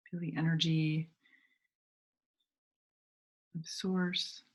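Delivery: unhurried meditation guide, long pauses between phrases; measured phrases that invite visualizing; guided meditation. Real, not acted. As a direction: gently lead listeners inward, leaving space to breathe.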